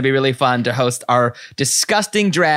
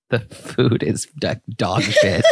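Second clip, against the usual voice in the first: laughing; 3 semitones lower than usual. Real, not acted. Laughing over the Vegas food.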